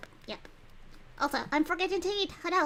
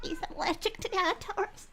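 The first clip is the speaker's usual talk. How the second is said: higher, tickled by the line; amused repeat; 5 semitones higher than usual. Real, not acted. Streamer laughing at her character's excuse, amused. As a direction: say it coming out of a laugh.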